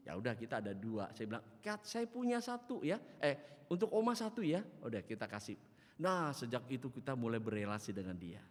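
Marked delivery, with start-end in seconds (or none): 1.6-4.6 high, raised-voice offer; helpful call. Retold or imitated. Pastor offers Oma one of his lamps, high eager call. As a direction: call it out obligingly, pitched up.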